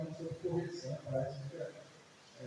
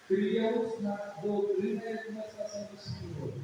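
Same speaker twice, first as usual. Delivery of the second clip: scripture reading. Acted. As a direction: read the Bible verse out to the congregation with weight. Reads scripture aloud.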